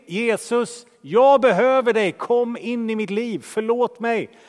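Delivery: fervent prayer. Acted. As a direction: cry out to Jesus for help. Preacher voices a sinner's prayer.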